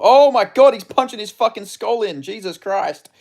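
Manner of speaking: loud, high cry that settles a little; astonished outburst. Real, not acted. Streamer cut off by sudden punches in the fight, high excited shout. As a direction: break off mid-sentence in amazed shock.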